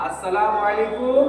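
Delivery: slowly, "আসসালামু আলাইকুম" with a rising end; slow repeat of salam. Shown as a demonstration. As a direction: hold each syllable of "আলাইকুম". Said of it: "তাহলে এইটা হচ্ছে সালাম।". (ধীরে "আসসালামু আলাইকুম", শেষে সুর ওঠে)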